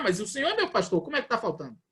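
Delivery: mildly puzzled challenge; questioning believer. Acted. A believer with many things missing, mildly questioning. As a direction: voice a believer's objection. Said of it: "você questionar".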